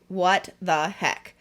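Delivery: slow, spaced-out exasperation; retold fed-up reaction, very slow; exasperated disbelief. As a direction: drag out each word in disbelief. Exasperated reaction to another call.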